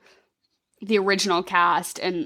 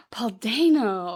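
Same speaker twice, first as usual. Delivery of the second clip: slow, breathless delight at the name; swooning over the actor; awed gasp; slower than usual. Real, not acted. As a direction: gasp then savour the name.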